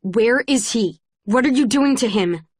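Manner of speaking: angry demand for answers. Acted. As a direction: push hard, shaking with anger. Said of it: "from anger".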